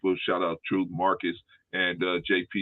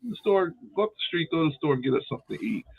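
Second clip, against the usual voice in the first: high, quick, sugary voice sending her off; mock-sweet ask to run to the store; sweet errand request; 4 semitones higher, faster than usual. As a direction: play the nice grandpa, light and quick.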